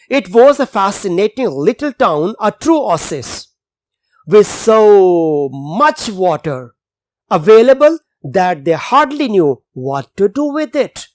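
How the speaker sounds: slow, deliberate passage reading for students; slow reading aloud. Acted. Teacher reading the English passage to the class, slow and clear. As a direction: read the text slowly so the class can follow.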